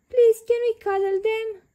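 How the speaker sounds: put-on high, eager child's plea; eager pleading. A narrator's reading. Peppa begging to cuddle baby rabbits, high eager. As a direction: beg sweetly to cuddle.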